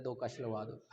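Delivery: faint, quiet voice of the dying man; a weak last request, lightly voiced; dying man's last wish. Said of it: "वो कहता है".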